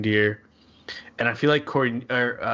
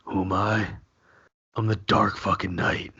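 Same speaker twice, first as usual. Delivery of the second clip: Batman whisper growl. Retold or imitated. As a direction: breathe it like a brooding Batman. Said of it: "T J, what you got?".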